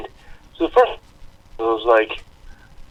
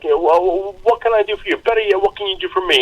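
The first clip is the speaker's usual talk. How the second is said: higher-pitched phone persona, lightly put on; Joe Pesci; 5 semitones higher than usual. Toying with a scam caller, lightly imitated Joe Pesci. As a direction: lightly imitate a movie wise guy turning the tables. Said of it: "my favorite is the Joe Pesci one".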